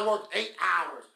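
drawn-out mock exhaustion on "Woo, I'm exhausted"; mocking a worn-out worker; mock exhausted whine. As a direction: ham up being tired, slowly. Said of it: "And you talk about".

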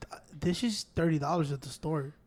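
hushed mock whisper about a cheap gift; whispered aside. Telling nephew Pancho the gift price, whispered. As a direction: drop to a whisper.

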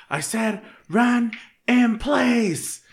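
high, slow, drawn-out bellow of an order; drill instructor yell. Retold or imitated. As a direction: stretch out the command like a furious drill sergeant. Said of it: "and she's like".

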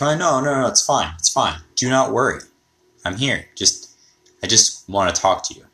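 imitating a gentle reassurance; reassuring. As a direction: soothe a terrified man, pitch up. Calming a scared Trump.

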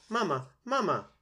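put-on very high, loud baby-bird cries; peeping gosling. A narrator's reading. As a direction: peep it out like a hungry hatchling calling its mother. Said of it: "peeped the gosling".

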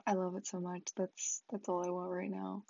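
drowsy, worn-out murmur; sounding tired. Real, not acted. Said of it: "I probably sound super tired and out of it".

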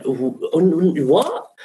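stuttered what, leaping very high; stammering disbelief. Retold or imitated. Model told he's in the show, stammering disbelief. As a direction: stumble into a high incredulous question. Retold shock at being cast.

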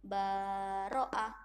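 "baro'ah" with the ba stretched long; mock drawn-out reading. Shown as a demonstration. Teacher imitating a pupil lengthening the ba. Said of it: "jadi timbul panjang".

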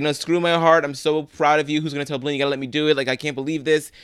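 high, loud, gushing pride; overjoyed dad. Retold or imitated. Bert brushing off his heart, loudly overjoyed. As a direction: burst out with pride.

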